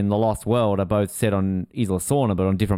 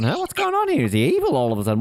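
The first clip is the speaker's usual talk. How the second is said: retold confusion; 4 semitones higher, faster than usual. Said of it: "I'm going".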